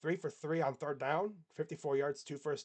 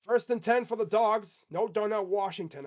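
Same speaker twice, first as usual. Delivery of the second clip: Southern announcer accent; 4 semitones higher, 7 dB louder than usual. Shown as a demonstration. Streamer calling the down for chat, light Southern accent. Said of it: "I'm probably doing a Texas accent".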